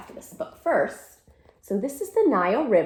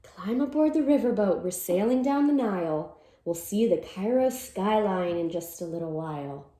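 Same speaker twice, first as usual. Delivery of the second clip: lively storybook read-aloud; reading to children. Acted. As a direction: read it like a cheerful picture-book chant. Reads picture book aloud.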